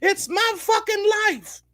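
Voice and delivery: high-pitched slow mock outburst; mock shout. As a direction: squeal it out like she's losing it. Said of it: "before shouting".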